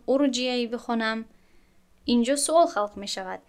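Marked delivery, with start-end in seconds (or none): 0.1-1.2 ارجعی read with a short u on the first vowel, urjiee. Shown as a demonstration. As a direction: start ارجعی with a u sound. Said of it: "شاید شما گمان کنید که من این را".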